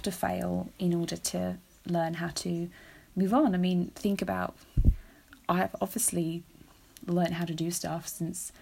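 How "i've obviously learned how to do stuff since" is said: learned said with a slight Australian accent; an accidental Australian twang on learned; Australian lilt creeping into learned; slipping into Australian. Real, not acted. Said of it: "God, I sounded really Australian then".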